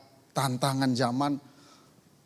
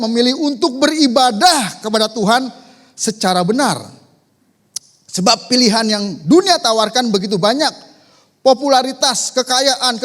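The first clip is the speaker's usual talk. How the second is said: loud, raised-pitch sermon proclamation; forceful preaching; 7 semitones higher, 9 dB louder than usual. Acted. Preacher urging Christian families to choose true worship, forceful preaching. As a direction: declare it with full force. Reads out principle at full force.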